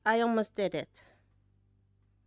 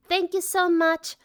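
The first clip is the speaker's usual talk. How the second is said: gushing thanks; 3 semitones higher, 4 dB louder, slower than usual. Real, not acted. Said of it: "blowing kisses to friends".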